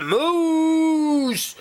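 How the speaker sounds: long, high mock shout; retold yell. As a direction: imitate dad's startled yell, pitch way up. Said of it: "when he yelled".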